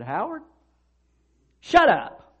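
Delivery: loud, high barked order; stern shout. Retold or imitated. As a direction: cut him off sharply. Professor rebukes talkative student.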